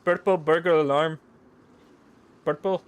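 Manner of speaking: loud, high mock Scottish accent. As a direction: belt it out in a hammed-up Scottish accent. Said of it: "in a Scottish accent".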